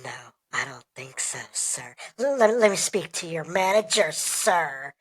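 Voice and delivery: mock-indignant, insistent customer; disgruntled customer. Customer demanding the manager's manager, disgruntled. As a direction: demand it, dropping on each sir. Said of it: "just like a disgruntled customer".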